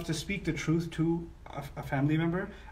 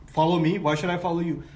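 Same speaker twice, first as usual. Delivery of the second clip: louder, bossy command and retort; arrogant-sounding; 5 dB louder than usual. Retold or imitated. Son sounding arrogant to his father, bossy. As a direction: demand he follow, then push back. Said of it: "which sounds arrogant".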